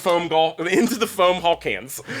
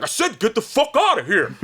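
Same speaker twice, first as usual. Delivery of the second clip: high, loud, exasperated yell; acted angry shout; 8 semitones higher, 5 dB louder than usual. Imitating roommate chasing her out of the bathroom, shouting. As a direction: yell it like you're fed up. Roommate fending off woman, retold.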